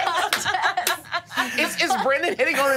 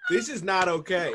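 low, soft disbelief; muted protest; 8 semitones lower, 6 dB quieter than usual. Real, not acted. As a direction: say it low, as if truly wronged. Player's mock outrage at others.

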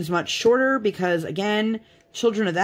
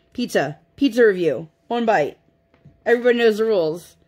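imitating toddler; 4 semitones higher than usual. Toddler repeating dad's rule.

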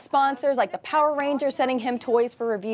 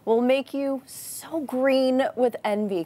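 sarcastic; 3 semitones higher, slower than usual. Acted. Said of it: "Can you tell I'm over it?".

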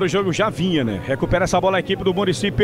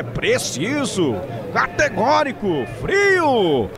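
high, fast-building praise; excited commentary; 7 semitones higher, much slower than usual. Real, not acted. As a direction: still thrilled after the goal. Praising the goal after the call.

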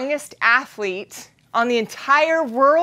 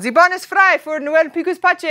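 German announcer; 4 semitones higher, 3 dB louder than usual. Retold or imitated. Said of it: "the announcer comes on".

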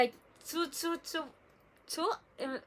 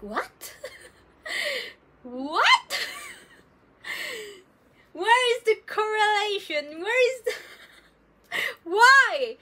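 higher and louder, laughing through the words; real shocked laughter; incredulous laughing outcry; laughing disbelief; 10 semitones higher, 7 dB louder, slower than usual. Real, not acted. Shocked by mom's remark.

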